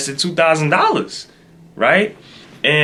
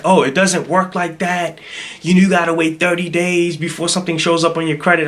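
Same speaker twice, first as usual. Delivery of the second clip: mock going off; 4 semitones higher than usual. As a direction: lecture the customer, mimicking her slightly higher voice. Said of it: "she's just going off".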